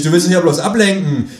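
high, loud accusation; calling out. Acted. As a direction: call after the kangaroo, accusing. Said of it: "rufe ich".

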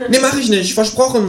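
high, promising kangaroo; high-pitched earnest talking animal. A narrator's reading. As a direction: swear it in a high creature voice. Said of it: "sagt das Känguru".

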